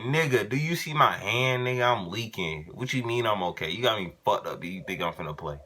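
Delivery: indignant comeback, showing his bloody hand; retold angry protest. To the coach who wants him back on the field, heated and indignant. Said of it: "I was like".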